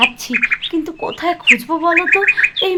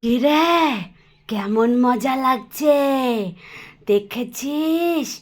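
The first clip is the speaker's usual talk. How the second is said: vampire boast; 3 semitones lower, slower than usual. Acted. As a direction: lower sinister witch voice. (নিচু গলায় ডাইনির দম্ভ)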